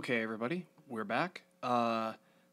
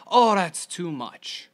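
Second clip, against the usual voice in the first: slow, higher whiny friend, louder; mock friend complaint; 6 semitones higher, 8 dB louder, slower than usual. Mimicking a friend who balks at sixty pages, slow whine. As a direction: drag out the complaint like a put-upon friend.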